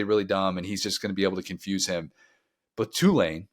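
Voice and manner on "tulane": Tulane said with care, first syllable leaned on; proud Tulane. Shown as a demonstration. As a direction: nail the word Tulane. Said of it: "I'm crushing that pronunciation".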